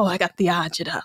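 lightly put-on Italian-American phrase; mock Italian accent. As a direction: toss it off in playful Italian. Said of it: "I get to say all these phrases now".

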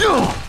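effort grunt. Real, not acted. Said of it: "all the grunting that I'm doing".

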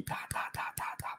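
put-on breathy whispered aside about the kids. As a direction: drop to a whisper mid-story. Mocks kids fighting in car.

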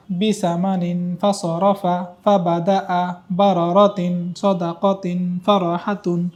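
slow, unbroken line with no pauses; one breath. Shown as a demonstration. Teacher demonstrates the last line to the student in one breath. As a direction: run the whole line on a single breath. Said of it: "আমি শেষ লাইনটা এক নিঃশ্বাসে আপনাকে বলে দেখাচ্ছি".

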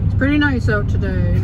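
to someone hard of hearing. Real, not acted. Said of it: "You speak up, I can't hear you".

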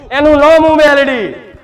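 loud fall on નામ, booming declaration; triumphant loud proclamation; proclaiming shout. Acted. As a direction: thunder out the goddess's name. Goddess proclaims her name.

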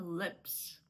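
"lips" with a firm L and short lax i, said low; low, hard-L "lips". Shown as a demonstration. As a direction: say "lips" without softening the L. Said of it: "твердіше".

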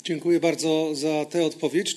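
ordinary talk

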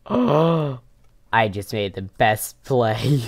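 gasping with delight; thrilled, breathless gasp; excited. Real, not acted. Excited gasp at clever play.

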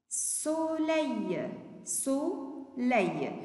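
soleil with both syllables held long; syllable-by-syllable model. Shown as a demonstration. Teacher answers for pupils what sun is, syllable by syllable. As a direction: draw out soleil for learners.

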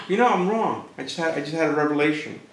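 hammed-up Paul changing his mind; mock sudden realization. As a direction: play it like a sudden bright idea. Mocking Paul's sudden reversal.

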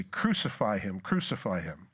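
preacher imitating the crowd turning on Jesus; mock crowd. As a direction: voice the hostile crowd. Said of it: "they will say".

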